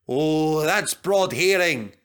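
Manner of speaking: slow, heartfelt; with feeling. Acted. Douglas speaking with feeling, slow. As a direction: say it moved. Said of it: "said Douglas with feeling".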